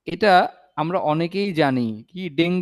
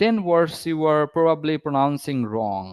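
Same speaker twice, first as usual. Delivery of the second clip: slow announcement; much slower than usual. Acted. Announcing topic slowly.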